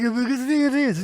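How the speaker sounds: French accent. Shown as a demonstration. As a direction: drawl it like a mock Frenchman.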